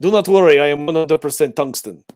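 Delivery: put-on Russian robot accent. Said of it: "my Eastern European accent".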